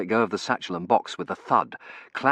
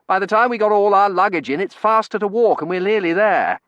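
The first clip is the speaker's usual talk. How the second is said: put-on higher, louder chatty young man; cheerful young Terence; 11 semitones higher, 8 dB louder than usual. A narrator's reading. Terence chattering to the narrator on the street, cheerful young voice. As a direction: rattle on cheerfully, full of beans.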